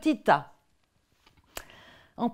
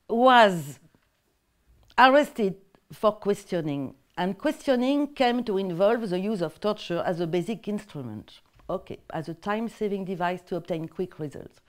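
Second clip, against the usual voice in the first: French-accented English; 2 semitones lower than usual. Real, not acted. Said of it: "montrer mon accent anglais".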